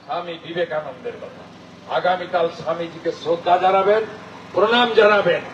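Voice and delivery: emphatic political oratory with pauses between phrases; rally speech. Real, not acted. Politician rallying a crowd to defend Bengali culture, declamatory.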